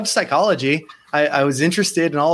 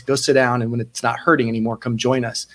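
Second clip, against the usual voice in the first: contempt. Retold or imitated. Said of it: "a lot of contempt in his voice".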